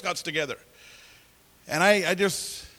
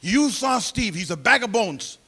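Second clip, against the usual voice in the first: Lydia's prayer; 2 semitones higher than usual. Retold or imitated. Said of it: "I'll never forget her prayer".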